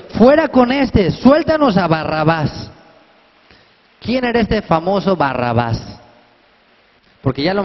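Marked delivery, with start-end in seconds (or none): 0.1-2.7 crowd shouting. A narrator's reading. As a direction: call it out like an angry mob. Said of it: "la multitud dio voces". (la multitud gritando fuerte y lenta)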